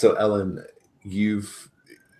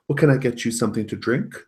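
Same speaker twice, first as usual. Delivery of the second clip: sweet mom voice; 7 semitones higher, 4 dB louder than usual. Acted. GM voices mother character.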